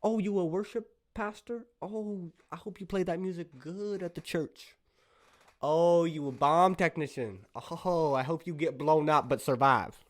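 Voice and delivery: guy reading out his awkward texts to friends, high and sing-song; awkward friendly texts. Pretend. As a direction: gush at a friend you barely know how to text. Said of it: "I feel awkward when I text them".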